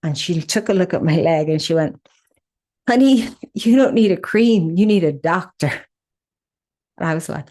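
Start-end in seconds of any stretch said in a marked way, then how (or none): 2.9-5.7 higher, louder mock pharmacist voice; a light southern pharmacist calling her honey.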